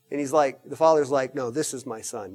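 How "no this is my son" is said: God the Father. Acted.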